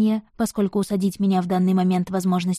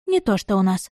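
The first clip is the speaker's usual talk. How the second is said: usual speaking voice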